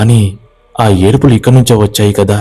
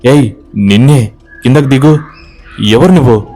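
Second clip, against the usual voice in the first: shouting; 5 semitones higher than usual. Acted. Ramu shouting at the figure to come down. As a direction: order her down with a raised voice. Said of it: "అని అరుస్తాడు".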